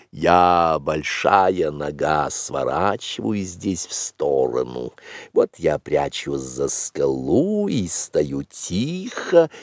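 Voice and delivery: put-on measured, drawn-out words of an older guide; composed Bagheera. Bagheera acting out the big foot's track, composed and slow.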